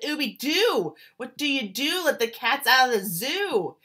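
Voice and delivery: high, loud call from the band cats; shouted greeting. Acted. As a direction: shout out to an old friend. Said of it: "remembered and shouted".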